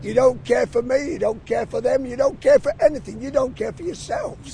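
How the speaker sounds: high, loud furious yell; angry shout at passers-by. Real, not acted. Angry protester yelling at public.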